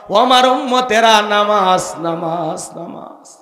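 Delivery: loud call fading into a whisper; last words dying down to breath; dying Prophet's appeal. Acted. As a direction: call out, then let each repeat sink away. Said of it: "এর মধ্যে একটি কথা".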